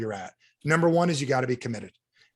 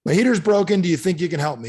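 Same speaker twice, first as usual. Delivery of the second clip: frustrated client; 3 semitones higher, 5 dB louder than usual. Retold or imitated. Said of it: "So he's like".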